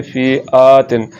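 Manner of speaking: फी आ तिन with a long aa; wrongly lengthened vowel. Shown as a demonstration. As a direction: stretch आ in फी आ तिन. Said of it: "Hamza को लंबा करने से".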